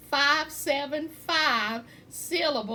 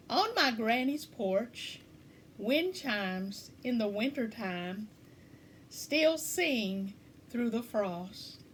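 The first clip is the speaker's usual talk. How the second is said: measured haiku recital, a pause after each line; poem reading; 3 semitones lower, slower than usual. Acted. Poet reading wind chimes haiku to listeners, measured poem reading. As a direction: read line by line, slowing on the last. Reads second haiku aloud.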